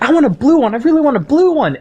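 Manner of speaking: put-on high kid voice pleading; imitating pleading kid. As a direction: beg for the blue one like a little kid. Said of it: "he's like".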